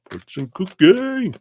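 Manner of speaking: high, loud playful call; playful announcement. Pretend. Reader announcing the fortune cookie segment, playful call.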